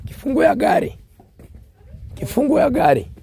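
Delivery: hoarse, high, loud calling; strained hoarse shout for the keys; frog voice. Real, not acted. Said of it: "sorry for my frog voice".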